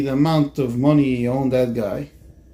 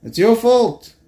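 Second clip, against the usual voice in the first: raised, higher, louder retold blame; upset accusation; 9 semitones higher, 5 dB louder, slower than usual. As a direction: throw the blame at him, acting upset. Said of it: "the guy was upset at him".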